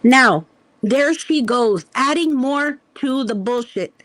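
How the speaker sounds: loud, drawn-out scolding; loud slow outburst. Real, not acted. Ranting to viewers about her rival, loud slow call-out. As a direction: bellow it slowly at her.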